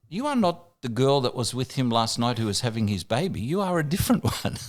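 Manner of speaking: lightly voiced comic deadpan, lifting at the end; Victor Borge. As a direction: deliver the punchline precisely, breaking into a chuckle. Retold comedian's warped punchline.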